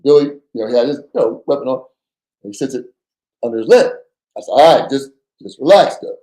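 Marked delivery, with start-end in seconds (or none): 4.5-6.1 higher, pressed urgent plea; urgent warning. Retold or imitated. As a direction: hold him back fast and tense. Urgently hushing armed partner.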